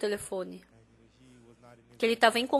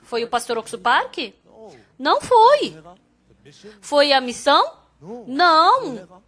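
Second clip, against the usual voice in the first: pregação enfática; 5 dB louder, slower than usual. Retold or imitated. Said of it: "Eu falei".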